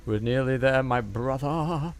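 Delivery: high, drawn-out broad Australian call; heavy Australian. Pretend. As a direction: ham up the Australian accent, stretching the last word. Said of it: "why am I turning Australian".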